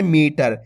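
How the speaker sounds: मीटर with the ee held long; मीटर said with a long first vowel; drawn-out long vowel. Shown as a demonstration. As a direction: stretch the मी of मीटर. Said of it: "खींच के पढ़ना है".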